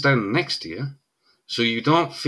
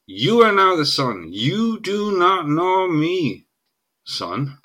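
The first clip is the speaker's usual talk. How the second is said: slow asserting quote; 5 semitones higher, slower than usual. Retold or imitated. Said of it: "He's saying".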